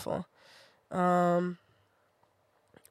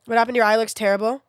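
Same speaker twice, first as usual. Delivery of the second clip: mocking commenter; 5 dB louder, faster than usual. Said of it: "I fucking banned that person".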